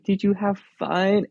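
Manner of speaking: put-on high-pitched sweet question, as to a child; asking a child. Ride worker greeting a returning boy, high and sweet. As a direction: lift the voice high for a little kid.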